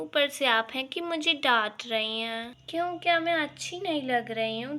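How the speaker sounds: teasing preening bahu; playful vain daughter-in-law; coy showing off. Acted. Bahu showing off new look.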